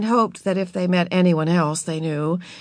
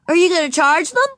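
put-on little girl voice; 11 semitones higher, 6 dB louder than usual. A narrator's reading. Narrator voicing Ramona to Beezus, high and childlike. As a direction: play four-year-old Ramona, proud.

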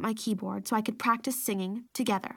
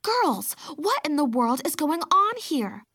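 stern surprise; 5 semitones higher, 3 dB louder, slower than usual. Acted. Mom walks in on fight.

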